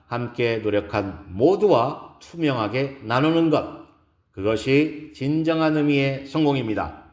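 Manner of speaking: measured keynote speech with emphatic key words; lightly voiced speaker making each point to an audience; poised woman lecturer. Gives a lecture in story. (차분하고 힘 있는 강연 말투)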